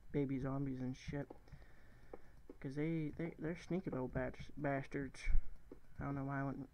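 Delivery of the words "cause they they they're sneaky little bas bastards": a touch of southern twang; southern accent. Real, not acted. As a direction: slip lightly into a southern accent. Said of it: "southern accent".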